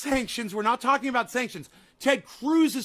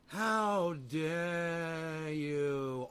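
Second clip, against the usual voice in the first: mock indignation; 10 semitones lower, 12 dB quieter, much slower than usual. Mock outrage after rant.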